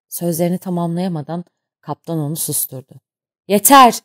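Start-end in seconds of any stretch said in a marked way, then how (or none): 3.5-4.0 loud furious shout, higher. A narrator's reading. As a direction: cut him off with a bellow. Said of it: "diye bağırdı". (öfkeyle bağırarak)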